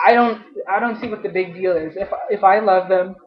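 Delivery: on the edge of tears; hurt, close to crying; tearful. Real, not acted. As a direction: voice catching with real upset. Upset over stepmom, voice cracking.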